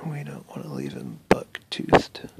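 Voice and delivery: breathy hush while concentrating; whispering. Real, not acted. Whispering close to camera.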